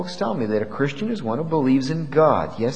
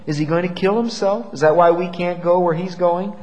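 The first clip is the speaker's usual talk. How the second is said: mildly sarcastic mock question, pitched higher; 4 semitones higher than usual. Preacher quoting the Jews' question about Jesus, mildly sarcastic. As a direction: imitate scoffers with a touch of sarcasm. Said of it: "in a sarcastic tone of voice".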